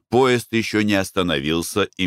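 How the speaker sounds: ordinary delivery, nothing marked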